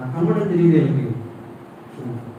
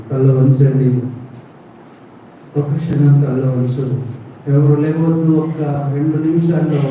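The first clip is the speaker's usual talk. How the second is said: firm altar call; 4 dB louder than usual. Acted. Preacher telling the congregation to bow and close eyes, firm and loud. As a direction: command the room to pray.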